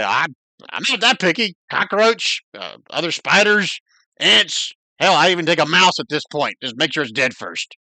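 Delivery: lightly voiced cranky spider; cursing spider. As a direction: complain like a trapped, starving spider.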